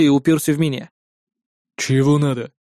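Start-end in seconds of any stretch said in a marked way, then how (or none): 1.8-2.5 a hint of a rough bouncer's growl. A narrator's reading. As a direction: grumble it like a bored thug. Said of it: "грубо прорычал он".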